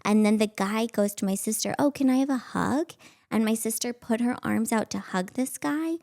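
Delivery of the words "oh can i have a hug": higher, sugary stranger voice; creepy sweet voice. Retold or imitated. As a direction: ask sweetly like a sly stranger. Stranger asks little girl for hug.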